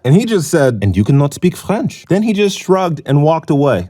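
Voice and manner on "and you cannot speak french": haughty mock French accent. Homeless man dismissing the tourist, French accent. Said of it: "French accent".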